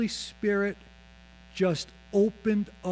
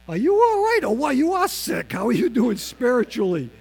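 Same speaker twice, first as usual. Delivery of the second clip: mock loud pressing; 5 semitones higher, 8 dB louder than usual. Sick friend pressing about faith.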